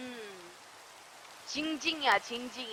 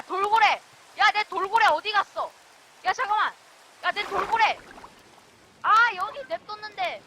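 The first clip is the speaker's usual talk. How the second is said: raised, upset exclamations; dismayed calling; 4 semitones higher than usual. Real, not acted. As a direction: call out after something just lost. Searching for the lost dolphin. (당황해서 높아진 목소리로 외치듯)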